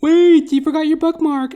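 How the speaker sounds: very high, loud falsetto call; high mock falsetto shout; drag queen calling. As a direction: call after the fleeing kid in camp falsetto. Drag queen calls after fleeing girl.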